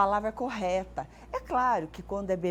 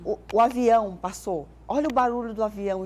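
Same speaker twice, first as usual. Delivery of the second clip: louder, fast, excited pointing out; parent talking to baby; 6 dB louder than usual. Shown as a demonstration. Parent showing a toddler the passing plane, excited baby talk. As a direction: call the child's attention to the plane. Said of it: "sempre falo assim pros pais".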